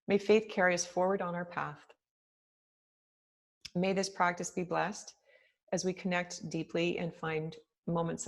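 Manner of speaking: measured prayer voice with long pauses; prayer reading. Acted. Meditation teacher opens class with a written prayer, measured reading. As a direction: read the blessing aloud, phrase by phrase, unhurried.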